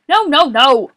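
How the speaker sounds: Boris. A narrator's reading. Boris stopping Morris with the spoon, shouting. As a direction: shout a rapid string of refusals. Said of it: "Boris shouted".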